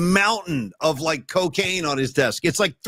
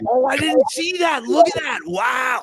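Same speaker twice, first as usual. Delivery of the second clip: surprised; 6 semitones higher, 4 dB louder than usual. Real, not acted. Sudden surprise at a sight.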